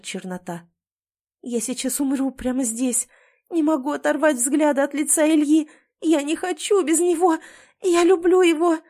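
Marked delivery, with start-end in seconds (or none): 1.4-8.8 rising, louder, high and tearful; clinging to him in despair; wife panicking over her unconscious husband; panicked anguish. A narrator's reading. Panicked inner cry.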